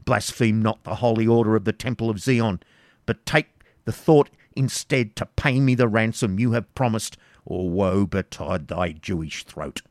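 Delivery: baron working himself into a passion; growing anger. Acted. Baron threatening the Jew over the ransom, angry. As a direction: threaten him. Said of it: "working himself into a passion".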